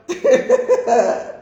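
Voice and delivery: high chuckle. Real, not acted. Host to Ninja in the chat, chuckling. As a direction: let out a high little laugh.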